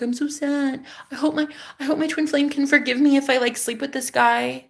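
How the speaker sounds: imitating her earlier tearful self, lightly; mild retold crying. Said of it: "when I was crying and I was like".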